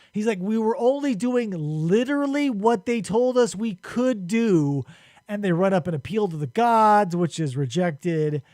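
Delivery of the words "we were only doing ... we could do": higher, mock-indignant complaint; retold indignant protest. Dying man protests his sentence to the gods, mock indignant. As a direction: protest the unfairness, imitating a touch of anger. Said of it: "like, pissed 'cause he's going through".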